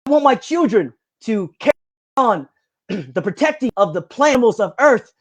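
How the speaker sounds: loosely imitated Australian accent, lifted and emphatic; Crocodile Hunter Australian accent. Quoting the Crocodile Hunter's wish for his children in an Australian accent. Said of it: "I can't do my accent".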